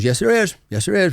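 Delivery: high, stubborn mock insistence; insistent retort. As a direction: imitate her digging in. Journalist insists on the claim.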